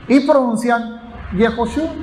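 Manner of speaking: Yehoshua with a clear E after the Y, called out; the E variant. Shown as a demonstration. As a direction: say it the way others do, Ye-hoshua. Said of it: "ponen la E".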